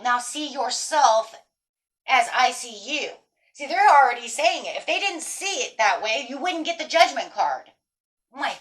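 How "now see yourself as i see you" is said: slow, deliberate voice of the universe. Pretend. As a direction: speak it slowly, like the universe reassuring you. Universe speaking to the viewer.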